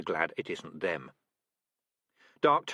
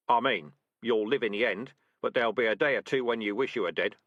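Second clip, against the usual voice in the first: louder, confident commands; brisk rat sergeant; 4 dB louder than usual. Acted. Sergeant rat ordering trainees to drag the trap, brisk. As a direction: give orders to the squad briskly. Dark Tan lecturing.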